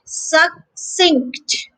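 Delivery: Succinct in two parts, suc, then sinkt; slow, separated "Suc... cinct"; split into syllables. Shown as a demonstration. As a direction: pause between the syllables of Succinct. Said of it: "So the second syllable here is cinct".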